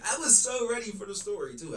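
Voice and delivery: laughing through the words; cracking up mid-sentence. Real, not acted. Host laughing at a skipped clip, laughing.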